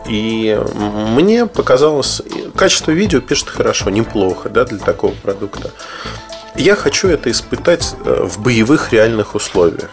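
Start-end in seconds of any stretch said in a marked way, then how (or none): none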